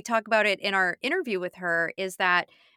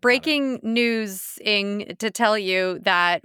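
put-on old-time news announcer; 4 dB louder, slower than usual. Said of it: "old-time news announcer doing his thing".

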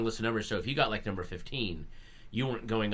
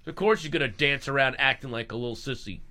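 mocking bully; 4 semitones higher, 3 dB louder than usual. Mocking bully from high school.

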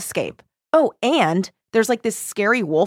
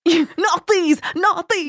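mock command; 7 semitones higher, much slower than usual. Repeating character's binding command.

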